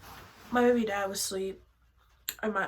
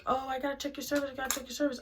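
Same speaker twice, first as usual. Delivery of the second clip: quick, higher-pitched repeated insistence; insistent nurse; 5 semitones higher, much faster than usual. Retold or imitated. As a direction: imitate staff rattling off a demand. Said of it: "she was like".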